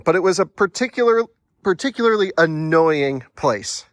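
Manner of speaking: words broken by hiccups. Real, not acted. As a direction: talk through the hiccups. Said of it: "forgive my hiccups at the moment".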